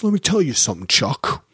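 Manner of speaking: lightly voiced Bobby Axelrod, teeth bared; a hint of his clenched, intense delivery; Damian Lewis impression. Podcaster mimicking Damian Lewis talking through his teeth. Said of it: "who always talks with his teeth out like this".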